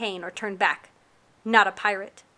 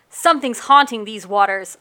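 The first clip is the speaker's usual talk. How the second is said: louder urgent cry; cried out; 7 dB louder than usual. Acted. Aaliyah warning the captain, raised voice. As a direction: call it out over the storm. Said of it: "Aaliyah cried".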